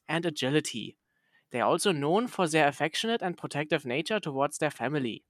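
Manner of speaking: put-on a light German accent on the essay. Reading the essay to a friend in a light German accent. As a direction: read the dog essay in a mild German accent. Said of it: "I'll just read it in a German accent".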